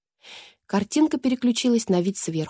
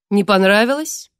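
mock surprise; 5 dB louder than usual. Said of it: "удивлённо произнесла королева".

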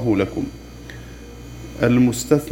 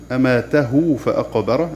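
تلاوة; slower than usual. Shown as a demonstration. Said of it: "هذه الهاء مضمومة".

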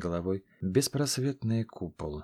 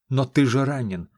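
louder, worried breathless protest; breathless exclaim; 4 semitones higher, 7 dB louder than usual. Acted. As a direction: gasp out the worry. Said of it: "задыхаясь, воскликнул великан".

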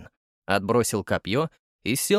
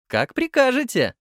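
high, mock-obedient; sarcastic; 12 semitones higher, 4 dB louder than usual. A narrator's reading. Lyudmila answers the nurse with high sarcasm. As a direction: say it dripping sarcasm. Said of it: "саркастичным тоном добавила".

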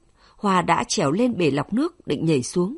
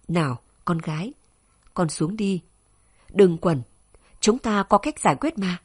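pleading. Acted. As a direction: gently beg the daughter to come down. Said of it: "nói như van nài". (bố nhẹ nhàng van nài con gái)

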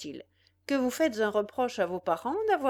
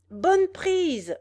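calling out; 8 semitones higher, 7 dB louder than usual. A narrator's reading. Young man on a mound calling to his friends, loud and high. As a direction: cry out from the hilltop, louder and higher. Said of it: "s'écria celui qui était monté".

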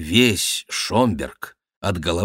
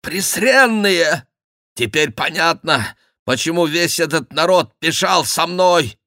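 high, raised, outraged exclaiming; indignant German nobleman; 9 semitones higher, 4 dB louder than usual. Acted. Dyed Schomberg grasps why the crowd followed, high outrage. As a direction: stretch the insult, then rage on in a high voice.

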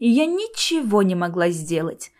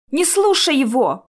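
higher-pitched urgent call; mild cry of warning; 5 semitones higher, 4 dB louder than usual. A narrator's reading. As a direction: cry out a warning, without full volume. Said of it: "закричала я". (несильный тревожный выкрик)

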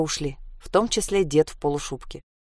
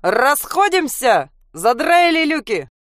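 slow, loud drawn-out bellow; loud bass shout; 7 semitones higher, 6 dB louder, slower than usual. Acted. An old woman or drunk bellows slowly to the crowd. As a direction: boom it out slowly over the crowd. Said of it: "громким басом крикнула".

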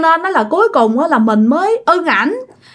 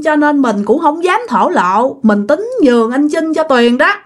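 acted weepy explanation, pitch raised; earnest, plaintive higher voice; tearful, sincere pleading; 5 semitones higher than usual. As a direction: plead your innocence to a friend as if crying. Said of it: "vừa nói vừa khóc mà rất là thật lòng".

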